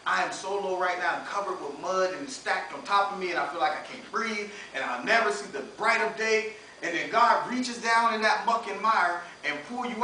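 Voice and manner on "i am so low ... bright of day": low, soft despairing lament; a hint of self-pity; mock despair. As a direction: sound buried and hopeless. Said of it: "you're like".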